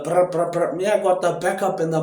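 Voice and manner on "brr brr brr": motorbike brr. Retold or imitated. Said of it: "Don't be like a motorbike".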